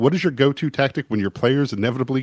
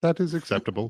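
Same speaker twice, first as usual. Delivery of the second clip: compliant, obedient put-on character voice; 4 semitones higher, 6 dB quieter than usual. Imitating a test subject who does whatever they're told: Subject five impression. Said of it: "that's a great impression".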